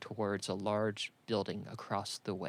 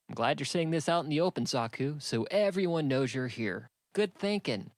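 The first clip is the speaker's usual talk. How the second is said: sarcastic; 5 semitones higher, 4 dB louder than usual. Acted. Sarcastic Kamo from pocket.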